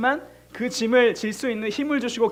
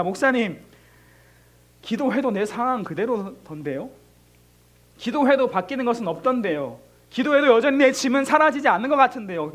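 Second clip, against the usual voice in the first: doubting complaint; 4 semitones higher, 5 dB louder than usual. Retold or imitated. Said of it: "라고 이야기할 수 있는 친구들이".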